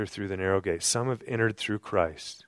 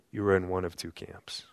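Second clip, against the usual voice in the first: hushed, breathy confidence; whisper; 4 semitones lower, 6 dB quieter than usual. Real, not acted. Preacher whispers the stakes to the listeners, breathy whisper. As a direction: lean in and whisper it to them.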